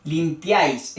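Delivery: limpiáis stressed on the A, then falling. Shown as a demonstration. Teacher shows where the accent goes, stressing the A in limpiáis. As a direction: hit the A of limpiáis. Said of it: "el acento va en la A".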